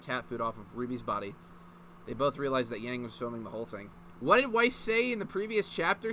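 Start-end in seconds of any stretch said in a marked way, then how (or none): 4.2-6.1 shouted. A narrator's reading. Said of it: "shouted Ruby".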